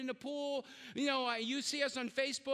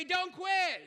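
congregation's call; 4 semitones higher, 3 dB louder than usual. Real, not acted. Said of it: "that was ridiculously lame".

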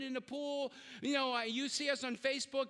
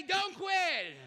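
preacher's shout; 4 semitones higher than usual. Real, not acted. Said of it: "Oh, come on, do better".

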